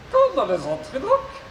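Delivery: high robot voice with garbled consonants. Acted. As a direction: mangle the consonants like a glitchy robot. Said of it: "souffre d'une pathologie vocale".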